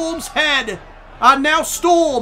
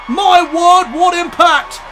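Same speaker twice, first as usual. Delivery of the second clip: excited; 2 semitones higher, 5 dB louder than usual. Real, not acted. Reacting to a powerbomb.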